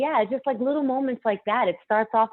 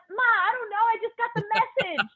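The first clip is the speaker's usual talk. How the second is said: flustered; 13 semitones higher than usual. Retold or imitated. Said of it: "I'm like".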